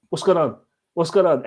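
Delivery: baffled at the frozen phone stream; confused. Retold or imitated. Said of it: "So I'm like".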